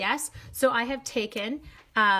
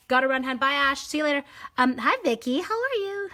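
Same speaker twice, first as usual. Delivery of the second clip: bright greetings; 6 semitones higher, 6 dB louder than usual. Real, not acted. Greeting chat viewers brightly.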